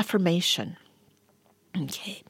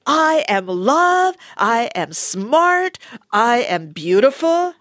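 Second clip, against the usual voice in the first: proud affirmations; 6 semitones higher, slower than usual. Acted. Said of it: "you are gonna think".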